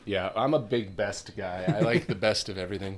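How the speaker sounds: talking loud without noticing. Real, not acted. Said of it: "I seem to have gotten real loud".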